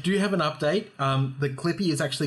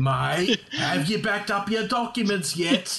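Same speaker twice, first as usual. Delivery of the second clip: condescending Australian Clippy; 5 semitones higher, slower than usual. Pretend. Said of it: "tones of condescension".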